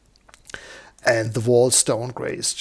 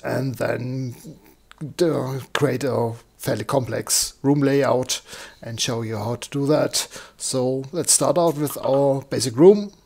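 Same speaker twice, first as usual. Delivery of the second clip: slightly croaky, hoarse speaking voice. Real, not acted. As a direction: talk with a little croak in the voice. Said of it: "Sue tells me my sound is a bit croaky".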